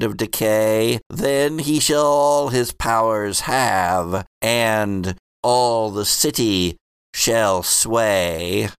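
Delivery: slow, solemn prophetic chant; rhyming oracle. Acted. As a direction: intone the prophecy like a seer. Prophet finishes rhyme.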